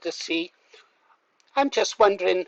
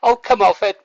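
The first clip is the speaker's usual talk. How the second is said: scoffing outburst; 3 semitones higher, 7 dB louder than usual. Real, not acted. Scoffing at the clip.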